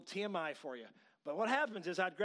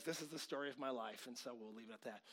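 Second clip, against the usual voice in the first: resigned; 7 semitones lower, 9 dB quieter than usual. Retold or imitated. Quotes husband's resigned punchline.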